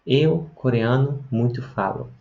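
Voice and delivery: "Eu, coreano, muito falo" said slowly, each word set apart. Shown as a demonstration. Teacher slowly spelling out Korean word order for students. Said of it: "Então, olha só".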